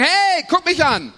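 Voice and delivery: high, slow "look at me"; show-off voice. Retold or imitated. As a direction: call for attention playfully. Acted call for attention.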